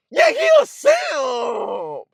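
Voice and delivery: slow, drawn-out hammed-up yell; mock shout. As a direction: shout the verdict to the crowd. Mocking verdict shouted.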